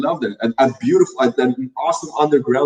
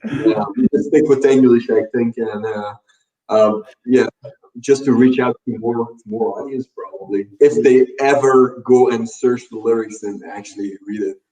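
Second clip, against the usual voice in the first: muffled. Real, not acted. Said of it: "you're a bit muffled for me as well".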